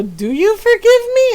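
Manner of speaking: high-pitched imitated plea; pleading kids. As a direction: plead like a kid in trouble. Brothers pleading with mother.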